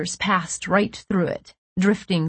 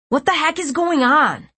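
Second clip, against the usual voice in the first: high, agitated question; bewildered demand; 9 semitones higher, 3 dB louder than usual. A narrator's reading. Jude to the room full of kids, bewildered. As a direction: demand an answer in confusion. Jude baffled amid the confusion.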